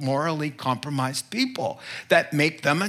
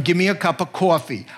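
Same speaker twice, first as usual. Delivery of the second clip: a light New York-Boston accent; mild New York accent, casual order; 4 dB louder than usual. Shown as a demonstration. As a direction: order coffee like a New Yorker. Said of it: "I will come back talking like this".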